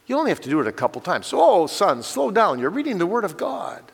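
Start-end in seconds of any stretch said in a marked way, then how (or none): 1.4-3.8 higher-pitched, mild fatherly correction; lightly acted dad's admonishing; gently correcting father. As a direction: gently rein in your son, pitch lifted. Father gently correcting son in example.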